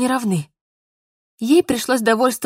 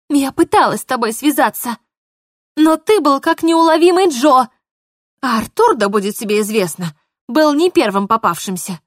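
heated defense; 3 semitones higher, 5 dB louder than usual. Acted. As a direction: refuse to be blamed. Polina defends herself.

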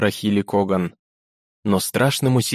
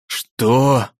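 взвизгнуть; 3 semitones higher, 3 dB louder than usual. Acted. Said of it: "взвизгнул Кагальный трибунал".

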